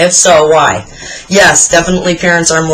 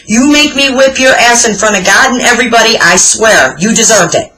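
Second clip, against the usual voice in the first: lightly voiced scolding granny, higher at the start; grandmother's scolding; 5 semitones higher than usual. Grandmother scolding her grandchild after he knocked things off shelves, mock stern. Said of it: "That's how she would say it".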